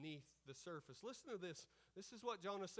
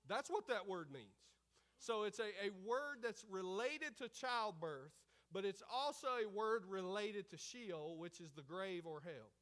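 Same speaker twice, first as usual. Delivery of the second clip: loud, higher-pitched sermon delivery; full-force preaching; 4 semitones higher, 7 dB louder than usual. Real, not acted. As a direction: drive the point home to the congregation.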